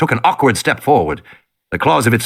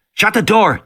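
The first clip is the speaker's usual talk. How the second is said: put-on urgent boy; 9 semitones higher than usual. Boy urges sister.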